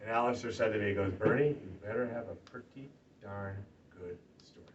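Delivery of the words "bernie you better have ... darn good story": low voice sinking to a whisper; quietly quoting a pastor's solemn charge; hushed retelling. Retold or imitated. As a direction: let it fade into a hush for weight. Pastor's solemn closing line, retold.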